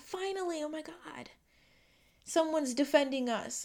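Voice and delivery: a hint of your younger self, relieved. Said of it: "because she's like".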